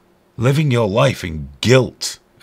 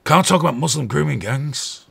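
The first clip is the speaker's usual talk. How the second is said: higher-pitched mock objection; mock scandalised; 5 semitones higher than usual. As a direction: act the shocked objector. Mimics shocked objectors, then gasps.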